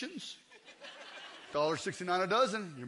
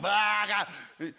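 exaggerated guttural belly-scratch noise; hammed-up noise of relief; scratching groan. Shown as a demonstration. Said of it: "you ain't going".

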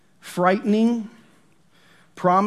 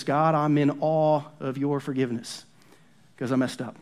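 sample prayer; 3 dB quieter than usual. Shown as a demonstration. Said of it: "those adoration prayers sound like this".

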